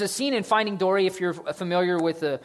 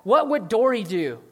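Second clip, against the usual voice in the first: Nemo asking; 6 semitones higher, 5 dB louder than usual. Acted. Nemo asks his dad.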